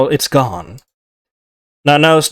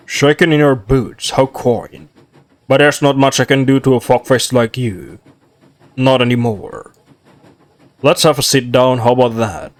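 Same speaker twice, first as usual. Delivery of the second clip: lightly low devil. Acted. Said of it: "His voice comes out low and gravely".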